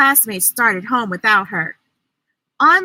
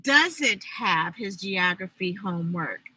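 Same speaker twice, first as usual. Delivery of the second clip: teacher correcting; 5 semitones lower, 7 dB quieter than usual. A narrator's reading. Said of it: "corrected Miss Jackson".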